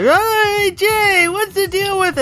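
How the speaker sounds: put-on high-pitched, over-eager kid voice; excited ornery kid. Host mocking his own show-opening voice, excited ornery kid. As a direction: squeal it like an overexcited kid. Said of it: "sound like some fucking ornery kid".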